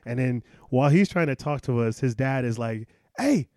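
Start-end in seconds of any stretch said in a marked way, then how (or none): 3.2-3.5 high, loud call across the bar; mock drunk call. Drunk dad hollering the lads over, loud and high. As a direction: haul the lads over with a bellow.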